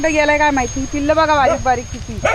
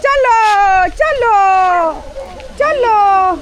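calling out; 5 semitones higher, 4 dB louder, much slower than usual. Real, not acted. Calling the kids to come. (मुलांना मोठ्याने हाक मारणे)

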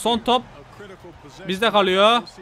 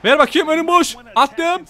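higher and louder, hyped; excited shouting; 7 semitones higher, 4 dB louder than usual. Real, not acted. Gamer scoring the late winner, triumphant shout. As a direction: shout like you just hit the winner.

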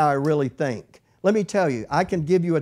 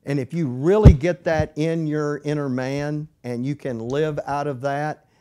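normal talking voice

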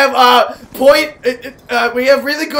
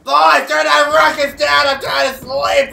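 mother. Acted. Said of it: "This is your mother".

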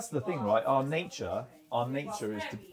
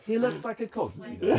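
mock Italian accent; 10 semitones higher, 4 dB louder than usual. Joking about Carlos, laughing in mock Italian accent. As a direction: still in the higher, laughing Italian voice. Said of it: "taking a piss out of an Italian".

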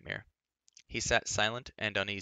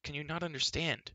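pleading; 6 semitones higher than usual. A narrator's reading. Young man trying to make the girl understand, pleading. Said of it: "he pleaded".

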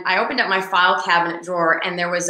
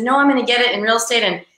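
excited insistence; 5 semitones higher, faster than usual. Retold or imitated. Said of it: "I said".

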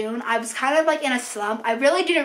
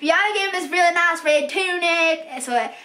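lightly put-on Southern accent. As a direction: slip into a mild Southern twang for her. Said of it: "I don't know why she's Southern".

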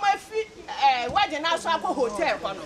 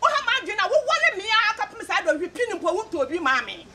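Edna's complaint; 5 semitones higher than usual. Retold or imitated. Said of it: "Na Edna beka so".

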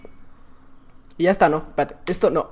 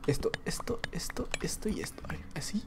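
susurro muy bajo y entrecortado; susurro para sí; 5 semitones lower, 21 dB quieter than usual. Real, not acted. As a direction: murmura mientras eliges, casi sin voz. Murmura para sí mientras elige objetos. (susurrando para sí mismo)

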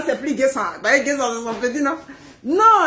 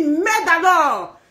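mock angry husband; 4 semitones higher, much slower than usual. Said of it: "quand il est énervé".

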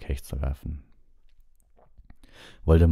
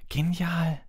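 blustering; 13 semitones higher than usual. Acted. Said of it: "polterte Fred".

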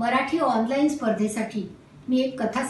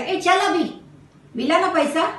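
mild shouting off; 6 semitones higher than usual. Acted. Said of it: "त्यांना ओरडला".

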